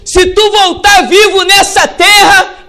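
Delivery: loud, slow, high prophetic cry; defiant shout. Retold or imitated. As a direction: thunder the warning at the king. Prophet defies the king.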